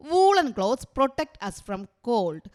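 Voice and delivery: each word spaced out very slowly for writing down; teacher dictating at a crawl; slow dictation. Shown as a demonstration. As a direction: read it out slowly so the class can copy it. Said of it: "നിങ്ങൾ എഴുതിക്കോളുക കേട്ടോ".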